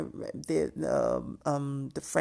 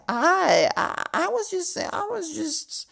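high defensive voice; 4 semitones higher, 4 dB louder than usual. Retold or imitated. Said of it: "Doctor Heavenly was like".

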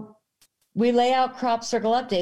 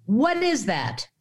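high-pitched mock yell, no real volume; retold scream; 7 semitones higher, slower than usual. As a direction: cry out as if retelling a shock. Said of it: "and I screamed".

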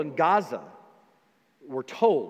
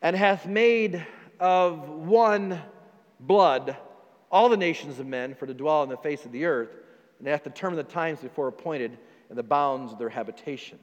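scripture reading. Acted. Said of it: "Acts chapter seventeen, verse twenty-six".

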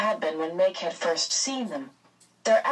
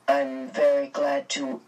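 low, lightly mumbled man's voice; mumbling; 3 semitones lower than usual. A narrator's reading. Mr Murray meeting the three ladies, mumbling. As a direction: trail off in a low, awkward mumble. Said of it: "Mister Murray mumbled".

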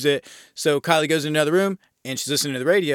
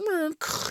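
high mimicked clank, a little softer; imitated jail-door sound; 5 dB quieter than usual. Reviewer mimics the film's jail bar sound, imitated noise. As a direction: mouth the sound of jail bars slamming.

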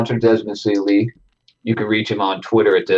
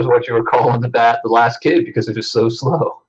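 fuzzy distorted mic; crackling overdriven mic sound. Real, not acted. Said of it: "you sound really distorted".

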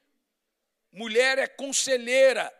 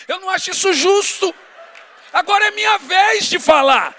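higher and much louder protest; mock aggrieved husband; indignant outburst; 6 semitones higher, 10 dB louder than usual. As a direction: burst out like it's unfair. Preacher's own complaint, exclaimed.

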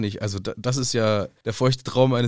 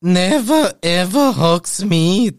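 slow, louder, spelled-out ban; stern mock decree; 3 semitones higher, 5 dB louder, much slower than usual. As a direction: lay down the law like Umbridge. (langsam und streng verkündet)

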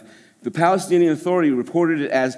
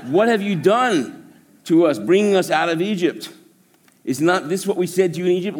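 kvetching complainers; 4 semitones higher than usual. Acted. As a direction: ham up the grumbling people.

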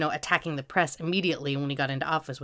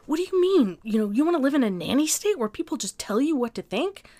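high, shrill-edged mimic of an upset mother, louder; a half-tearful mom imitation, high and louder; imitating upset mom; 10 semitones higher, 5 dB louder than usual. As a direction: play the tearful mother pleading, pitched way up. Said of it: "she was really upset".

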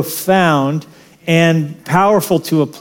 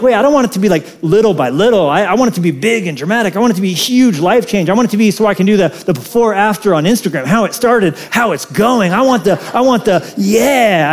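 higher, pushy wish for big change; mock eager demand; 3 semitones higher, faster than usual. Congregant wanting instant results, mock eager whine. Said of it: "we're like".

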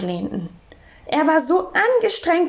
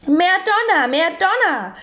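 high, delighted cry; begeisterter Ausruf; 6 semitones higher than usual. A narrator's reading. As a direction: call it out high with enthusiasm. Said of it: "rief Herr Taschenbier begeistert". (hohes, begeistertes Rufen)

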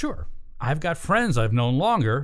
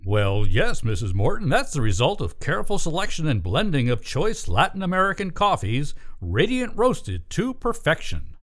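ad read. Acted. Sponsor pitch in the scene.

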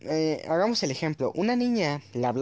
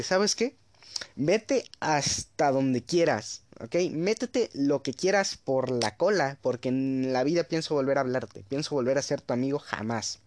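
retold telling off. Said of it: "yo llegué a decirle".

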